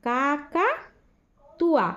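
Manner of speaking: কাকাতুয়া said slowly and clearly, every syllable held; slow careful pronunciation. Shown as a demonstration. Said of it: "এবার উচ্চারণ করে আমি তোমাদের এগুলো শোনাবো".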